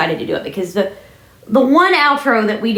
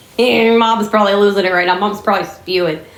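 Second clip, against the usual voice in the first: plain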